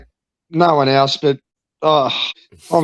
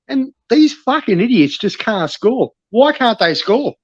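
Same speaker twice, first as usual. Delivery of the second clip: higher-pitched, worked-up complaint; exasperated rant; 4 semitones higher than usual. Real, not acted. Player complaining that big ruckmen can't score, ranting. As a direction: vent in disbelief at useless players. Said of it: "Just on a rant".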